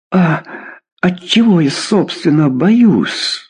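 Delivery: a sudden outburst of fury. A narrator's reading. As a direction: hurl the question back defiantly. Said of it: "вдруг вскричала Ирина с неожиданной яростью".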